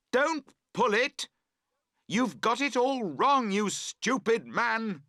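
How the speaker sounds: loud high furious cry. A narrator's reading. Camper shouting at his friend over the tent, furious. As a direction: yell at him to stop pulling. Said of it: "you cry".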